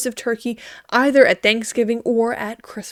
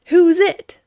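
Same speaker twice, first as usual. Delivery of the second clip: high, loud chick voice calling out; turkey chick call; 7 semitones higher, 6 dB louder than usual. A narrator's reading. Turkey chick calls out in game.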